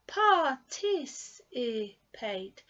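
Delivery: "Participate" very slow, each of the four syllables separate. Shown as a demonstration. Teacher drilling learners on a four-syllable word, very slowly. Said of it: "Let's try it again".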